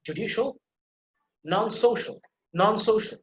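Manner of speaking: "judicial" and "non-social" with the second syllable stressed. Shown as a demonstration. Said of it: "put emphasis on the second syllable".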